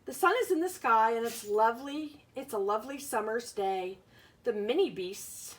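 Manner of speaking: put-on gentle storybook read for young kids; reading to children. Teacher reading a picture book to her class, gentle storytelling.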